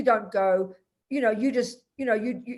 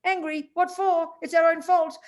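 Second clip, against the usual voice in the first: higher-pitched, lightly incredulous retold reply; casual dismissal; 7 semitones higher, 4 dB louder than usual. Tibetan friend answering the teacher about anger, casually dismissive. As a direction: imitate a friend brushing off the question. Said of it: "he laughed very casually and he said".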